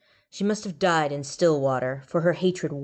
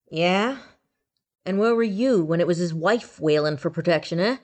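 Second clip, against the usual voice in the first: coughing ghoul; 4 dB louder than usual. Acted. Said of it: "coughed the ghoul".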